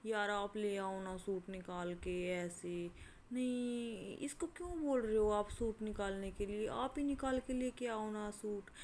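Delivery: put-on sugary, coaxing tone aimed at the boy; mock sweet voice. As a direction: imitate her putting on a lovingly sweet voice. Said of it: "इतने प्यार से बोल रही".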